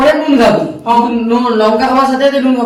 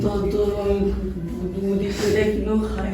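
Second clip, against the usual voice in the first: beggar voice; 2 semitones lower, 7 dB quieter than usual. Acted. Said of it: "ভিখারি সেজেছে".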